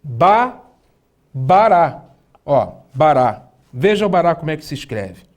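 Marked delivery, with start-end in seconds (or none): 0.0-0.6 ba said alone as a clear first syllable; teacher splitting bará into syllables; syllable sounding. Shown as a demonstration. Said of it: "como na palavra". 1.3-2.0 bará rebuilt with stress on -rá; teacher blending syllables back; Hebrew word model. Shown as a demonstration. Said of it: "como na palavra".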